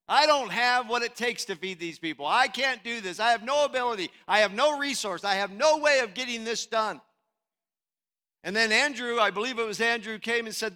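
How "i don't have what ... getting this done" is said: acted-out helpless objection; mildly hammed-up exasperation; exasperated protest. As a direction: pile up the excuses, punching each "no". Acts out disciples' helpless protest.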